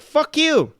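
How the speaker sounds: sharp, high and loud fuck-you; defiant retort. Retold or imitated. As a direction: spit it back in their face. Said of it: "my response is like".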